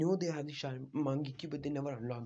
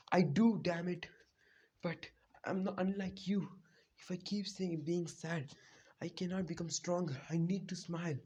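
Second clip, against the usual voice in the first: tearful reply; 4 semitones higher than usual. Retold or imitated. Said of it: "Naruto started to cry".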